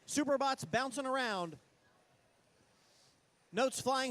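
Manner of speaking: fast, energetic match commentary; live play-by-play. Real, not acted. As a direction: call the action as it happens.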